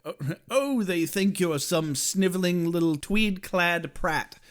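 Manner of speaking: mock British sneer, drawn out; Ethan. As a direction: put on an English accent to belittle someone. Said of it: "As Ethan said in the last episode".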